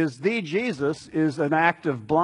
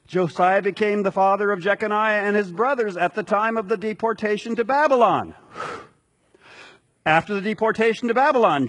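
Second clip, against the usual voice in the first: radio voice. Shown as a demonstration. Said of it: "listen to me read it in my small print radio voice".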